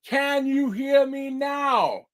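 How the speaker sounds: lightly voiced hunchback. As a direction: drag it out like a bell-ringer. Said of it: "Hunchback went".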